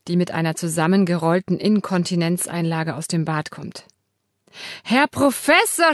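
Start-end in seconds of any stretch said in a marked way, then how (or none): 4.8-5.9 put-on high, loud call to a deaf old man; shouting. Carer Simone calls the grandfather, shouting high. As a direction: shout up at him, brightly. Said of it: "schreit sie".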